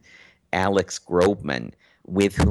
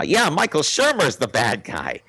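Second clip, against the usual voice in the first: higher, dopey parroting voice; dim stormtrooper echo; 7 semitones higher than usual. Retold or imitated. Rubin parrots the mind trick, dopey high echo. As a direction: repeat it back like a hypnotized dimwit. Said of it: "as dim as a stormtrooper".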